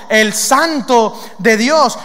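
very slow, weighty proclamation; slow, measured declaration; solemn quote. Acted. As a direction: stretch each word out emphatically. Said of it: "la frase teológica más profunda".

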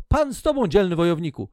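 angel's greeting. Acted. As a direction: call out the blessing with ceremony. Angel greets Gideon in reading.

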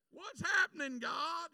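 hammed-up despair; woe is me cry. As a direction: plead to the sky. Acted cry to God.

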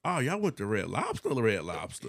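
swooping, lilting show-off quote; playfully hyped-up brag; mock bragging. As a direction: imitate someone impressed, pitch swinging up then down. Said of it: "that was the bragging point".

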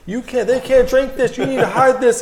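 high mock-scolding team manager voice, laughing through it; imitating Maverick. Maverick scolding him about giving Red Bull to kids, high mock-stern voice. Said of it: "He would be like".

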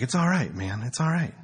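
lazy laid-back stoner; lightly voiced stoner dude; imitating stoner Ron.

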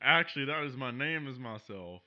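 a hint of a drawling southern colonel; folksy cowboy hero; lightly voiced southern hero talking about whiskey; southern gentleman. Plays a southern TV protagonist.

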